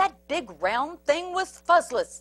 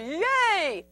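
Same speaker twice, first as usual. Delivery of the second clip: higher-pitched crowd cheer; storybook yay; 5 semitones higher than usual. A narrator's reading. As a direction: hurrah like a happy crowd. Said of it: "the crowd cheered".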